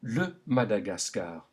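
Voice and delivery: le Madagascar with open French a in every syllable; French vowel A. Shown as a demonstration. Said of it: "Say it aloud".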